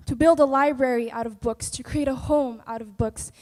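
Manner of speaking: dramatic poem recital; spoken word poetry. Acted. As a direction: perform it like slam poetry on stage.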